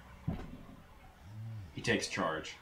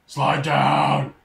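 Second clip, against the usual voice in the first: yelling at the screen; 4 semitones higher, 9 dB louder than usual. Real, not acted. Yelling at game sheep.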